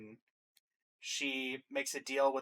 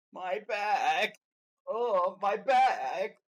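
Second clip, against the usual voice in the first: higher, loud mock cry of an aching back; mock aching granny; 7 semitones higher, 6 dB louder, much slower than usual. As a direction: wail it out, imitating an old granny. Mimics the clip's granny's aching back.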